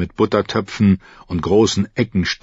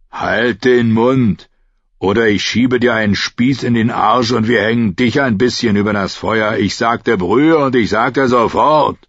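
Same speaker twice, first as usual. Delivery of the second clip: menacing threat; 3 semitones higher, 3 dB louder than usual. Acted. Thug threatens the cook.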